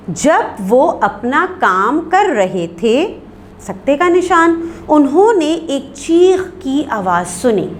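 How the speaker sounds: slow "जब वो अपना काम कर रहे थे", stop, then "उन्होंने" starts afresh; pause after clause. Shown as a demonstration. Teacher reading another example sentence, pause after clause. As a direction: read the long sentence in two measured halves around थे.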